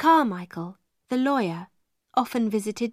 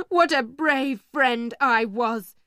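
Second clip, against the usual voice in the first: bitter sarcasm; 2 semitones higher, slower than usual. Acted. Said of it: "He laughed angrily".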